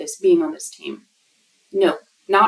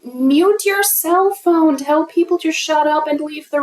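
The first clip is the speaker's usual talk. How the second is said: exasperated command; 6 semitones higher than usual. Real, not acted. Ranting at an unprofessional call.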